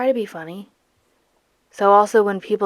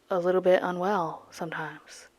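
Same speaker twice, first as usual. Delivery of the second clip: whispering; 3 dB quieter than usual. Shown as a demonstration. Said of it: "I do sound unwell".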